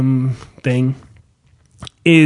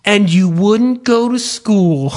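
slow sing-song, breaking into laughter; storybook voice with laughter; laughing through the quote; 4 semitones higher, slower than usual. Retold or imitated. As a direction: read it while cracking up. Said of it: "They're like".

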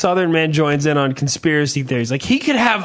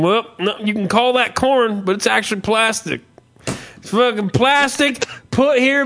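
mock Southern conspiracy rant; 3 semitones higher than usual. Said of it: "Southern people don't believe anything".

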